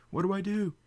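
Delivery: high, loud panicked repeat. Acted. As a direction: shriek it again, frantic. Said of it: "dance of panic".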